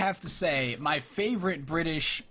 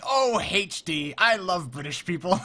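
delighted friend; 2 semitones higher than usual. Retold or imitated. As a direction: gush like a charmed American fan. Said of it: "he's like".

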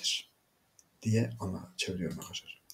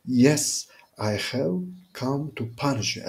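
loud, raised opening on Yes; 5 semitones higher, 4 dB louder, slower than usual. Acted. Ghostly voice come to punish Pauline, loud voice. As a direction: announce it high and forceful, easing slightly. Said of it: "burada bakın yüksek sesle".

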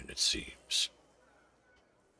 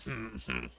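suspicious orc; 3 semitones lower, 4 dB quieter than usual. Acted.

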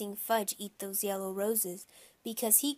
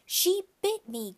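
high, loud, shocked yelp; crying out; 10 semitones higher, 5 dB louder than usual. A narrator's reading. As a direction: cry out in pained outrage, drawing it out. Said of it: "Grandma cried".

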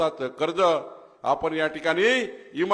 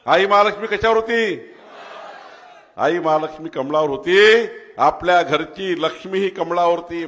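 rousing build; 5 dB louder than usual. Real, not acted. Rousing climax.

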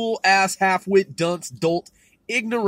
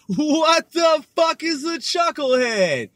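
laughing disbelief; 9 semitones higher, 5 dB louder than usual. Real, not acted.

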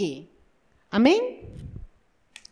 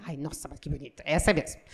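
low, much softer swooning; soft, low, dreamy admiration; smitten sigh; 11 semitones lower, 8 dB quieter, faster than usual. Retold or imitated. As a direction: breathe it out as if instantly in love. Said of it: "Aí você".

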